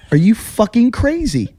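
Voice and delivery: high, slow, disbelieving demand; exasperated, high-pitched retort; retold incredulous anger. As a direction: act out appalled disbelief. Retells telling off the woman.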